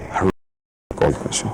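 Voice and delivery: shy whisper, barely audible; too shy and soft. Shown as a demonstration. Timid salesman whispering his pitch to a client. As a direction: mumble it shyly, almost whispering. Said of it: "don't be so shy, so soft".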